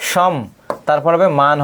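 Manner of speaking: সম said alone as "shom", then মান as "maan"; syllable-by-syllable pronunciation. Shown as a demonstration. Teacher showing students how the word sounds, সম and মান said as separate syllables. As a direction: break the word into সম, pause, মান. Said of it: "এর উচ্চারণটা হবে কি".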